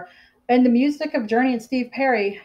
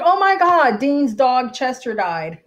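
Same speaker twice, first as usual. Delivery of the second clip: shocked gasp; 3 semitones higher, 3 dB louder, slower than usual. Retold or imitated. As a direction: blurt it out in disbelief. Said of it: "I was just like".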